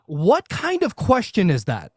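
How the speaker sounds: baffled, stretching out the question; retold disbelief. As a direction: question it in mild mock disbelief. Retold baffled reply to the cop.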